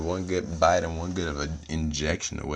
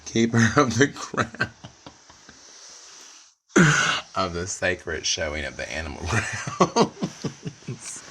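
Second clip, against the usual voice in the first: mock grand title; slower than usual.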